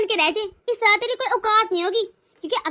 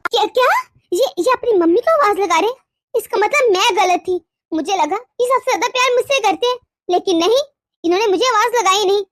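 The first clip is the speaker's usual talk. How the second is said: loud, wounded indignation; indignant; 4 dB louder than usual. Acted. Wife fuming that he called his mother first, indignant. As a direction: fume aloud to yourself.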